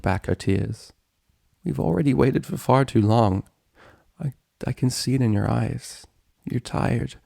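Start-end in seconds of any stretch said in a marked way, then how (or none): 1.6-7.2 pained persuasion. Acted. Acted tearful persuasion of friend.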